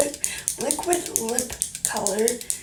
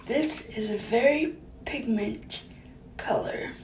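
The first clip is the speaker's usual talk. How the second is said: lips not touching. Real, not acted. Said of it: "you cannot talk. It's really hard 'cause your lips cannot touch".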